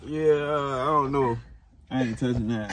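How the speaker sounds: drawn-out laughing yeah; slow laughing refusal. Real, not acted.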